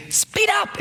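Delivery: high, pushy speed up; impatient nudge. Retold or imitated. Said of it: "So I'm constantly saying".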